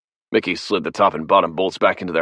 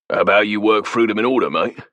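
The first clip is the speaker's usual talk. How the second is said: angry Cockney snap; 4 semitones higher, 4 dB louder than usual. Acted. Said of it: "A hard Cockney voice snapped angrily".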